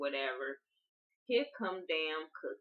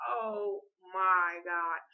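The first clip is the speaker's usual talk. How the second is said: laughing; much slower than usual. Real, not acted. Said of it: "And I was like".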